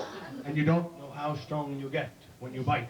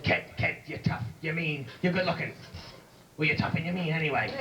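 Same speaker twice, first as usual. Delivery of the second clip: tough wrestling manager. Acted.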